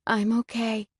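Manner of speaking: weak croaky voice; croaking. Acted. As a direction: croak it out weakly. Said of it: "I croak".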